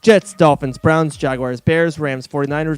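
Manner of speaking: rattling off names without breathing; one long breath, no pauses; all in one breath. Real, not acted. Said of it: "He's gonna tape me saying all the teams I've blocked out already in one breath".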